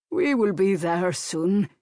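slow soothing reassurance; calm him down slowly. A narrator's reading. Old man reassuring the man beside him, soothing. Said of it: "said in soothing tones".

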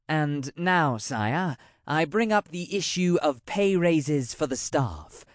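a lightly voiced wary royal advisor, deferential; bow slightly as you praise him, awed; a hint of a nervous courtier; courtier Tremaine.

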